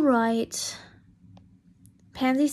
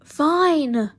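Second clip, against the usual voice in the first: loud, higher Fine; louder, fed-up Fine; raised voice; 4 semitones higher, 7 dB louder than usual. Acted. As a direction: Draco snaps back, louder. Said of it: "Draco raised his voice".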